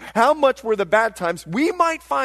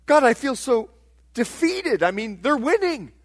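a higher-pitched, lightly pleading protest to God; psalmists' complaint; 4 semitones higher than usual. Acted. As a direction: complain to God with a touch of defeat. Voices the defeated psalmists' complaint.

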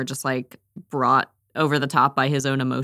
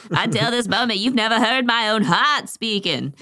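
dramatic recitation; 6 semitones higher than usual. Pretend. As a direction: deliver it like a stage lover. Reciting Cyrano line dramatically.

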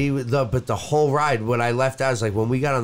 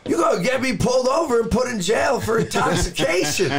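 retold driver's warning; 10 semitones higher than usual. Retelling the driver's alarmed warning.

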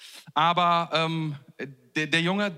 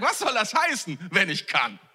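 mock-affronted rhetorical question; indignant echo. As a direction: throw the doubt back, incredulous. Jesus indignantly echoes the father's words.

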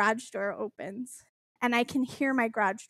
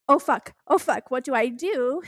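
retold panic. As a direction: replay a flustered moment of panic. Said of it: "panic and I go".

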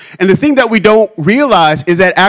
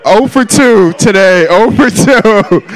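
self-deprecating; 3 semitones higher, slower than usual. Real, not acted. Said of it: "I know that was a fail".

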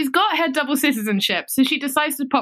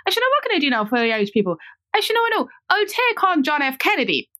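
mock defiant Irish woman; 5 semitones higher than usual. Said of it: "she says".

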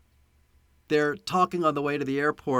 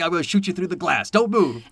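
quick, raised-voice mock order; retold threat; 3 semitones higher, 4 dB louder than usual. Film fan retelling a gunpoint shower scene, mock threat. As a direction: imitate a tense gunman's command.

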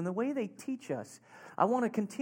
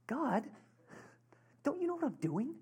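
frustrated plea; 6 semitones higher, 8 dB quieter than usual. Retold or imitated. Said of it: "it was so frustrating".

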